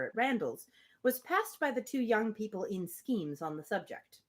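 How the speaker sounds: measured, even storybook reading; steady literary narration; reading a novel aloud. Acted. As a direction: read the passage to the group like an audiobook.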